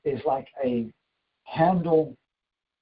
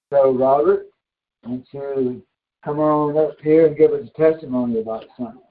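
raised voice, summoning someone forward; calling out; 8 dB louder than usual. Real, not acted. Preacher to Robert, inviting his testimony, calling out loudly. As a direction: call out loudly across a congregation.

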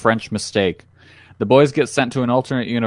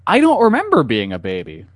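clickbait video narrator; 4 semitones higher than usual. Pretend.

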